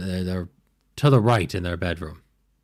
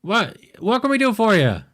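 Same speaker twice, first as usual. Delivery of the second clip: higher, startled and nervous gnome; 11 semitones higher than usual. Acted. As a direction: answer the knock like a jumpy little gnome. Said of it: "he goes".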